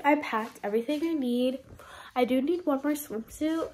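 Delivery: stuffy nose voice; congested. Real, not acted. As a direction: talk through a blocked nose. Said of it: "Sorry if I sound, like, congested".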